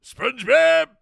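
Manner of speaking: high, loud squeaky cartoon voice; SpongeBob voice. Host naming the voice in a squeaky SpongeBob voice. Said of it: "I gotta do the voice".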